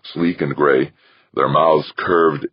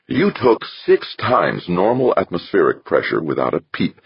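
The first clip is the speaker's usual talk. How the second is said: smiling; 4 semitones higher than usual. Acted. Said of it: "he said, smiling toothily".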